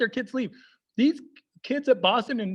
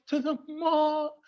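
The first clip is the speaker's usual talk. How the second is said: higher, slow, dreading; mock horrified dad; 5 semitones higher, slower than usual. Dad repeats mall in mock dread. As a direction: repeat it slowly like a doomed prophecy. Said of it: "He says it like".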